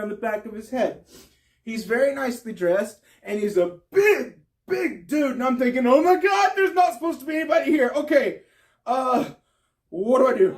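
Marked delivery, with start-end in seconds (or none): 5.9-10.6 frantic inner voice spotting a stranger; panicked thought. Retold or imitated. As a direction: blurt it out in sudden alarm. Finds stranger on couch.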